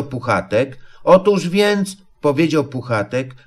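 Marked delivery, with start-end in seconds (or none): 1.0-2.0 high, tentative lead-in; groping, higher-pitched false start; hesitant explaining. A narrator's reading. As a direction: try starting over, unsure how to explain. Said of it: "nie tłumaczy się dość jasno".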